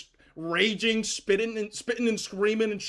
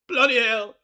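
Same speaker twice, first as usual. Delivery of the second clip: put-on British accent; 2 semitones lower than usual. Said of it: "Mark Goldbridge is British".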